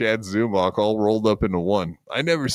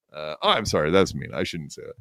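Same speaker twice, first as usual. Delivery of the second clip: low, soft mock-contrite apology; 10 semitones lower, 6 dB quieter, faster than usual. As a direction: fake sheepish take-back. Mock apology after insult.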